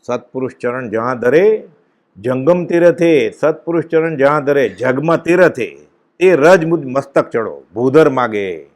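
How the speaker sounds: slow, measured verse with drawn-out line ends; devotional verse recitation. Acted. Preacher recites verse on the holy ground, devotional recitation. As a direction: recite the couplet slowly, phrase by phrase.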